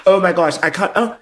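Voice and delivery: high, laughing through the words; words tumbling out through laughter. Real, not acted. Laughing at the flashback.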